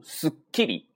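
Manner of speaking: すっきり with す cut short before きり; held stop. Shown as a demonstration. Teacher shows catching the first sound, held stop. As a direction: catch す, pause, release きり. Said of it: "你看す收住".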